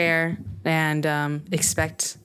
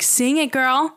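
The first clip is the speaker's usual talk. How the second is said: higher-pitched mock cheer from the crowd; hype-man cheering; 8 semitones higher, slower than usual. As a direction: egg the singer on like a hype man. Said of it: "she's the inside hype man".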